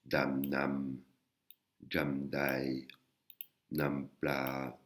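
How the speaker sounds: Dam, nam, jam, dai, nam, pla sounded out one at a time with pauses; teacher demo of Thai syllables; Thai syllable drill. Shown as a demonstration. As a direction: model each Thai syllable for repetition. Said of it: "Les syllabes vont former des mots".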